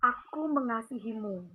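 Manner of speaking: soft, slow and tender; lightly voiced, say it like a loving whisper of comfort; gentle voice. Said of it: "Dan itu lembut banget". (lembut, pelan dan penuh kasih)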